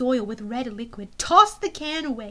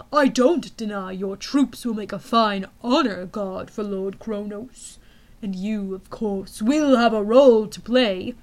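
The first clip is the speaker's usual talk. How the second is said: menacing general; 3 semitones lower, 4 dB louder than usual. Acted.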